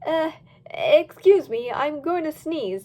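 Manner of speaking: panicked fib. Acted. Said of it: "started to panic".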